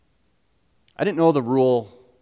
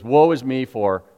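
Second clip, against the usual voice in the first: lament; slower than usual. Retold or imitated. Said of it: "Isaiah immediately goes".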